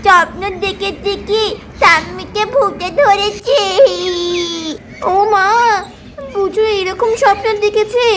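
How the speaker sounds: a child whimpering and sobbing about a bad dream; crying child. Little boy telling his mother about the ghost dream, tearful whimper. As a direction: cry out to mum, scared from the nightmare.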